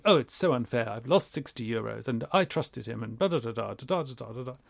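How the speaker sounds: hammed-up moan trailing into babble; mock complaining. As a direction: grumble in mock self-pity. Mocks someone dwelling on loss.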